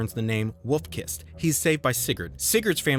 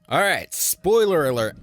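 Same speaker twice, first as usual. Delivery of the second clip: emphatic warning; 4 semitones higher, 5 dB louder than usual. Acted. Announcing spoiler warning.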